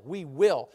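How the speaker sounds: "will" weighted as a settled promise; stress on will. Shown as a demonstration. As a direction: land firmly on "will". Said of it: "Notice the emphasis on the word will".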